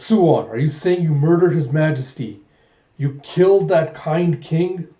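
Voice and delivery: outraged confrontation. Acted. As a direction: confront a traitor in acted outrage. Hawk confronts Suwon over the killing.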